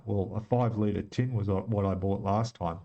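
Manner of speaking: talking through a face mask; words muffled behind a mask. Real, not acted. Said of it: "Sorry, I'm talking in my mask".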